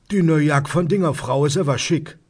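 high-pitched Rhineland dialect neighbour; nosy neighbour. Acted. Neighbour passes on news from the street, high dialect voice. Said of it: "von meinem Nachbarn, Herrn Fassbender".

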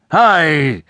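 a mild shout. A narrator's reading. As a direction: fling the word out. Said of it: "he shouted out".

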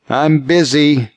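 put-on a boy holding himself together; nearly cracking. A narrator's reading. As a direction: drag it out, close to breaking. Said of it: "His voice nearly cracked".

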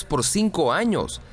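CINCO AÑOS lifted high at the end; emphatic. A narrator's reading. Bill urging his doubting friend, "cinco años" emphatic and high.

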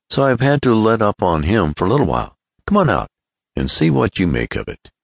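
lightly acted friendly persuasion; Tom. Tom coaxes his chum.

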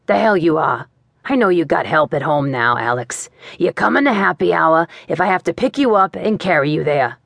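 put-on thick booming Boston accent; Jerry, Boston accent. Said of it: "thick Boston accent of my old boss".

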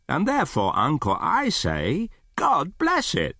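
mildly impassioned, heartfelt speech; lightly voiced earnest nephew.

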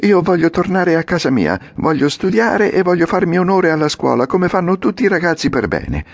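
put-on high puppet voice, good-boy resolve; a puppet trying to sound well behaved; Pinocchio, earnest. Pinocchio refuses the trip. (Pinocchio serio, voce alta da burattino)

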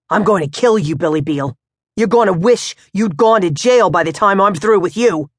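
threatening father. Acted. Pops threatening his son, menacing. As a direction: promise to hurt him.

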